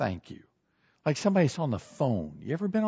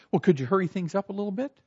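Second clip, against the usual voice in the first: quick, higher, impatient request; getting terse; 5 semitones higher, much faster than usual. Acted. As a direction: hurry the cashier along with mild terseness. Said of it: "start getting a little terse".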